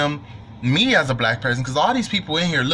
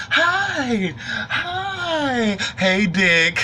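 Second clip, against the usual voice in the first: cheerful white folks; 7 semitones higher, much slower than usual. Retold or imitated. Imitating cheerful white diners.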